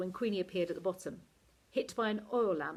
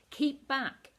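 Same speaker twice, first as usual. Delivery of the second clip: sharp, higher, louder warning; 7 semitones higher, 4 dB louder than usual. A narrator's reading. Olive warns Cliff away from the fight, loud. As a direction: warn him off, loud and urgent. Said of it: "I warned him".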